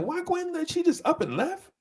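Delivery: high disbelieving squeal; shocked question. Retold or imitated. Friends hearing the news, high shocked disbelief. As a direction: sound stunned she left. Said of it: "And we like".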